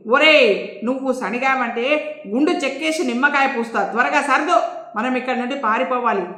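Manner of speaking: hurried, scolding threat; mock angry shout. Boss hurrying the grumbling servant, mild shout. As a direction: hustle him to pack up fast. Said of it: "అరిచాడు చౌదరి".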